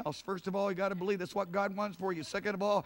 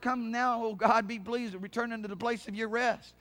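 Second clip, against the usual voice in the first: raised preacher's plea to God; prayerful appeal; 5 semitones higher, 3 dB louder than usual. Acted. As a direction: appeal aloud to the Lord. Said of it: "I just say to the Lord".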